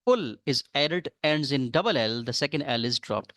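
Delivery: very slow, deliberate rule reading; dictating a rule. Acted. Teacher slowly dictating a spelling rule to students. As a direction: spell the rule out word by word for the class. Reads the next rule aloud.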